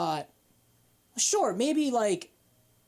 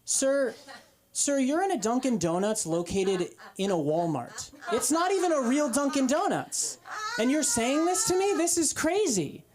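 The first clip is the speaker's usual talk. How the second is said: incredulous protest; 5 semitones higher than usual. Retold or imitated. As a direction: plead with him, getting more incredulous. Teen worker protesting to customer.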